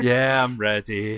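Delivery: glum, unenthusiastic tone. Answering the question whether the players are ready: unenthusiastic. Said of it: "Don't sound so happy about it".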